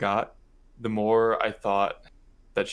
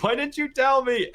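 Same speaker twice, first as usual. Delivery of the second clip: mad mom; 4 dB louder than usual. Retold or imitated. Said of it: "and then she got mad".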